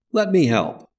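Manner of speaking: lightly voiced American youth, high and bright offer; transatlantic voice. A narrator's reading. Red-haired youth offering Trant help, light American voice. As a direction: chirp it in a casual American accent. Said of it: "said a transatlantic voice".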